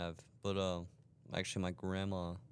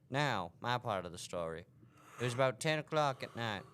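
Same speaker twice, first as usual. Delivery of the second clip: put-on southern accent. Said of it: "in the southern voice".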